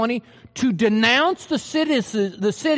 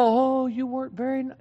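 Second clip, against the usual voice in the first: wimpy reading; 4 dB quieter than usual. Shown as a demonstration. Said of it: "in a wimpy little".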